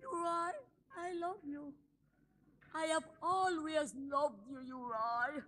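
soft plea. Acted.

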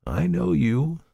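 be severe but kind; kind severity. A narrator's reading. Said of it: "a sort of kind severity rather than firmness".

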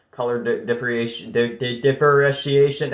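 tripping over "differentiation"; stumbling, then sounding out "differentiation"; jumbling words. Real, not acted. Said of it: "I keep jumbling on my words".

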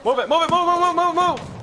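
high, loud rapid orders; urgent shouting. Real, not acted. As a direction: push the squad forward hard. Urging team forward.

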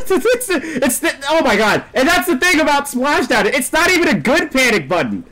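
high, loud sputtering protest; sputter, then yell the complaint; exasperated rant. Real, not acted. Gamer ranting about Splashdown in the game, exasperated yelling.

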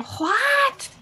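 high mock whisper-scream; stage whisper. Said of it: "like, a whisper scream".

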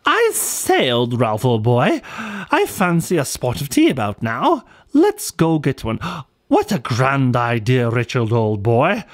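lightly voiced upper crust English accent; a hint of a toff's English accent; posh English accent. Two kangaroos chat over tea in a mild posh English accent. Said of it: "they would talk a bit like this".

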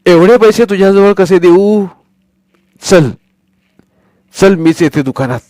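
a wary granny deciding to come along herself; doubtful grandmother. Acted. Grandmother telling Sonya she will come to the shop, wary. Grandmother refuses to hand money.

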